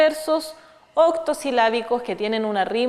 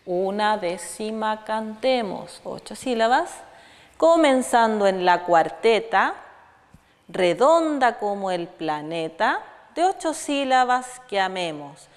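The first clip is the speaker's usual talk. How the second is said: slow verse recital; 2 semitones lower than usual. Shown as a demonstration. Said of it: "Aquí, por ejemplo, dice".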